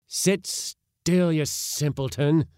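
loud, high scolding cry; cried out. A narrator's reading. Uncle rebuking his nervous nephew in the boat, crying out. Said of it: "cried my uncle again".

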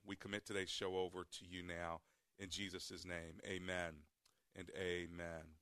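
calm, earnest on-air prayer. Acted. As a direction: pray sincerely for listeners. Leads a radio prayer.

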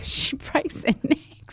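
slow hushed whisper of a grim secret. Real, not acted. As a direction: breathe it like a dark confession. Shocking detail told low.

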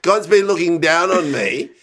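slow, lightly put-on singer's accent; half-committed accent impression, unhurried; earnest line in a mild borrowed accent; a singer's accent. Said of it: "go into the accent".

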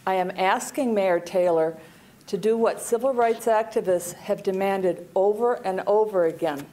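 muffled, speaking through a mask; words dulled behind a mask; through a face mask. Real, not acted. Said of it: "pardon my mask".

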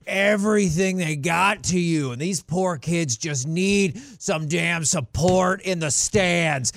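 mildly hammed-up impassioned coach speech; mock a coach pleading for his players; Nick Saban. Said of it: "a variation of that speech".

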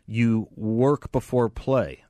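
slow, drawn-out comic setup and punchline; Jeff Foxworthy. Retold or imitated. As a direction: lightly mimic a stand-up's catchphrase joke. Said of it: "almost like a Jeff Foxworthy, uh, joke".

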